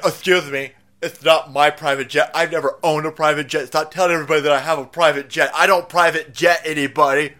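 lightly voiced indignant politician with a lisp; John Kerry. Politician denying he owns a private jet, mock indignation. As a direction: deny it huffily, lightly lisped.

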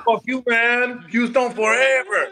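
laughing mock tough guy, slow; hammed-up brave boyfriend through laughter; fake tough guy swagger. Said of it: "pretend to be tough".

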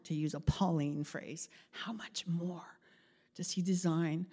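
soft, slowed hushed question. Real, not acted. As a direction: drop to a near whisper. Hushed sermon aside.

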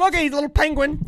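put-on very high, loud baby-talk; silly teasing voice. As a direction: squeal it at a shivering friend. Teasing voice continues.

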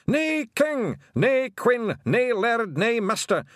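high, loud Scottish battle roar; full-throated pixie rallying cry; united roar. A narrator's reading. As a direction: roar it as a chanting war band. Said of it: "in one roar that shook the walls".

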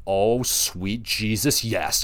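awed delight. Retold or imitated. Grabbing the hammer, awed.

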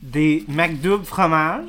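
slow, called out from afar; far from mic. Real, not acted. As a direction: project it across the room. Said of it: "je m'éloigne du micro".

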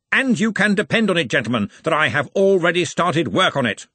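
indignant arch-chancellor, building in force; Ridcully. A narrator's reading. Arch-Chancellor vows to hunt down the poisoner, indignant declamation.

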